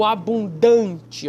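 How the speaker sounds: "abundante" drawn out with a loud DAN; slow "abundante", punching its strong syllable, DAN; stressed syllable DAN. Shown as a demonstration. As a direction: lean hard on the "dan" in "abundante". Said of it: "dan tá sublinhado".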